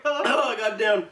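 high, slow disgusted groan. Real, not acted. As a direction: drag it out in disgust. After swallowing booger bean.

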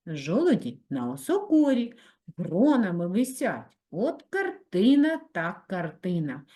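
playful, lively poem reading; poem recital. A narrator's reading. Teacher reads funny poem to pupils, playful recital. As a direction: read it with a wink of humour.

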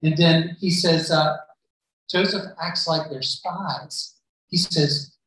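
ordinary talk

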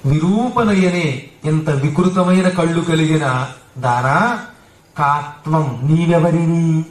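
mild and soft, no threat in it; gentle and soft. Acted. Hanuman gently answering the fierce guardian Lankini, soft and slow. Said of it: "ఈయన చాలా కోమలంగా మెత్తగా".

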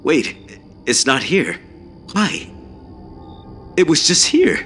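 very high, disbelieving cry; bewildered yell. A narrator's reading. Runner finds the door gone, bewildered cry. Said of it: "I yelled".

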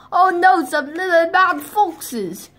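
high, loud hammed-up fear; mock fright. Wolf spotting the foxes, high mock fright. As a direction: gasp like a scared wolf.

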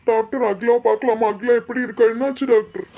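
urgent, worried questions to a doctor; anxious pleading. Acted. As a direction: press the doctor anxiously for news. (பதற்றமான கெஞ்சல்)

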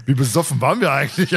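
laughing through the question; chuckling while asking, amused at the memory. Real, not acted. Laughing at their past selves. (lachend gefragt)

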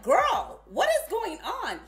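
loud, high disbelief; half-mocking shocked call-out; incredulous. Reacting to her old self.

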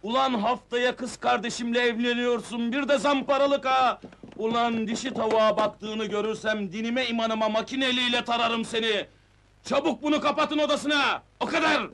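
indignant scolding building to an order; angry outburst. Acted. Brother catching his sister's fiancé chasing women, angry outburst. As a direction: explode at the groom, then lay down the law. Brother-in-law enraged at groom's request.

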